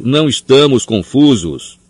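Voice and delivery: slow, loud, high shout. A narrator's reading. Harry protests to Fudge, slow loud shout. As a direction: insist hard, yelling. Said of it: "berrou Harry".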